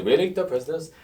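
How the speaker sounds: put-on British accent. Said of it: "he always say".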